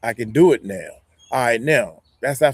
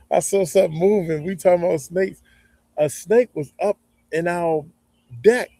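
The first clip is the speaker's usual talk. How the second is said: laughing it off; 6 semitones higher than usual. Real, not acted. Laughing off the scare.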